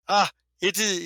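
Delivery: loud boisterous yes; hearty gladiator. Acted. Gladiator Hafis greeting his friend, loud and hearty. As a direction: boom it out like a showman. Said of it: "he goes".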